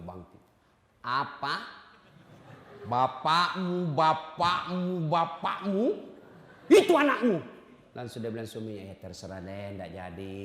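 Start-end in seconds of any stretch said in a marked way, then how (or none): 1.1-7.4 drawn-out indignant repeats, then a loud snap; hammed-up furious wife; mock outraged wife. Wife outraged at husband's request, drawn-out indignant mockery. 8.9-10.4 soft, low, defeated mumble; meek surrender. Retold or imitated. Husband backing down to his wife, soft defeated mumble.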